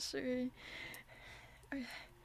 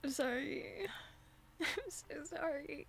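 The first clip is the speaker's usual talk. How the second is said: teary apology. Real, not acted.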